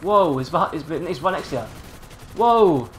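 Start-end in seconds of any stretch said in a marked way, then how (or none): 2.4-2.9 shocked high yelps; startled, pitch jumping way up. Real, not acted. Gamer yelps as his car gets wrecked, shocked. Crash in racing game, shocked.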